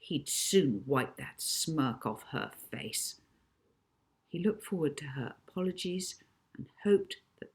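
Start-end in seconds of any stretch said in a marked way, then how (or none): 0.0-3.2 furious. Acted.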